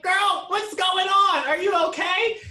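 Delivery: a son alarmed, calling to his breathless mom. Retold or imitated. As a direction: sound panicked as you ask if she is okay. Retold alarmed reply to mom.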